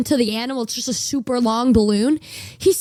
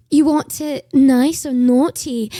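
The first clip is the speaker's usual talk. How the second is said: slow, sultry bartender voice, a touch louder; flirty bartender; 5 dB louder, slower than usual. Retold or imitated. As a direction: purr the offer like a teasing barmaid. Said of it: "then she goes like".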